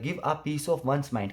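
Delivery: बहुत धीरे, शब्द-शब्द अलग, "Give a piece of one's mind"; slow dictation. Shown as a demonstration. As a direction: dictate each word slowly for students. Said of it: "पीस और पीस में difference". (बहुत धीमे, लिखवाने वाले अंदाज़ में)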